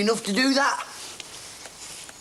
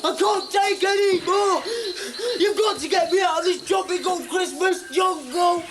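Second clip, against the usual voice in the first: desperate shout; 6 semitones higher than usual. Acted. Breaking down, shouting.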